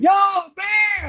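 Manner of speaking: retold scream. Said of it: "Chris, like, screaming".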